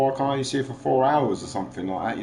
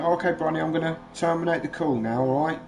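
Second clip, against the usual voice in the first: higher-pitched retold dad talk; dad to child; 5 semitones higher than usual. Dad telling daughter the call is ending, dad-to-child voice. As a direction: retell gently addressing a small child, pitched up. Retelling words to young daughter.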